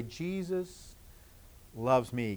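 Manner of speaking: hushed, barely voiced; soft demo whisper for the children. Shown as a demonstration. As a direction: whisper it gently to yourself. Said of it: "maybe in a whisper out loud to say".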